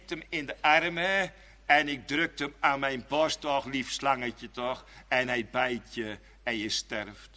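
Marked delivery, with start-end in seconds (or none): 3.4-4.8 tender coaxing. Acted. Cuddling the snake to his chest.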